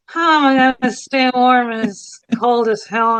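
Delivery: lightly imitating a Minnesota accent; Minnesotan accent. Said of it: "very Minnesotan one".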